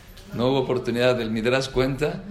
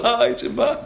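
exclamation; 10 semitones higher, 3 dB louder, slower than usual. Real, not acted. Exclamation of despair.

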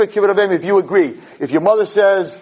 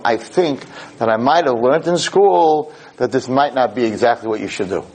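polite deference; 4 semitones lower than usual. Shown as a demonstration. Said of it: "That's how you have to talk to them".

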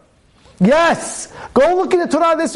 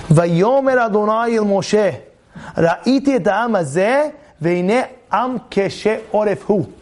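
lowered, measured verse reading; softer rebuke; 2 semitones lower than usual. Acted. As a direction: read the verse gently and evenly. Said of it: "is more soft".

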